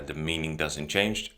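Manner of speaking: normal talking voice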